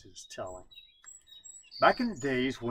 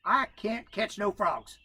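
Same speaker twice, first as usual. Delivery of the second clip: sorry raccoon; 8 semitones higher, slower than usual. A narrator's reading. Coon answering sadly.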